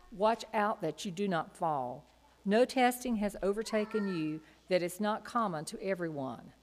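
ordinary talk, nothing marked

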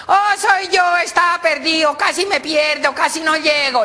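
high, squealing little-pig voice; piglet voice. Acted. Piglet greets owner at the door after getting lost, piglet voice.

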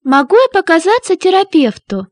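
normal talking voice

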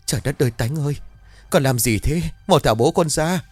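rising to a frightened shout; mother panics as son strangles father, crying out; panicked cry. A narrator's reading. Mother crying out in panic at her son. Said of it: "hoảng quá mà kêu lên".

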